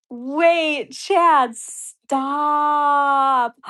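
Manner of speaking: high, loud, stunned cry of disbelief; shocked at a huge donation, yelling high; excited disbelief. Real, not acted. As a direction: call out to him, too thrilled to believe it. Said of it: "I'm losing my mind over these donations".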